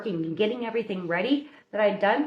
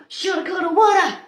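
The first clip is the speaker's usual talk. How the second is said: mock regret; 9 semitones higher, 6 dB louder than usual.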